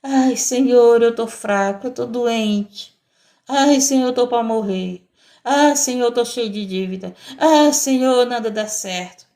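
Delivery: dragging, moaning complaint to the Lord, each "Ai, Senhor" sighed out; mock whiny prayer. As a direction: parody a self-pitying believer groaning through a prayer. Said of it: "Mas a tua oração é aquela oração".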